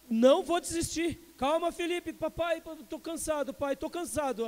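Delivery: put-on high, breathless little boy begging his dad; tired child pleading. Retelling son's plea to his father, high child pleading. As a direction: whimper like a worn-out son. Son panics in river.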